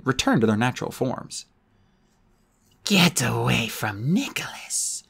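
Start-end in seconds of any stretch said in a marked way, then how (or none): 2.8-5.0 out of sync voice. Acted. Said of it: "her lips not moving in sync".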